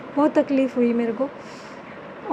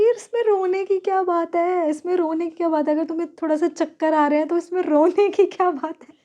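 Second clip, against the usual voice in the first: scolding herself; 4 semitones higher than usual. Retold or imitated. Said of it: "अपने आप को ना बोली जा रही हूँ".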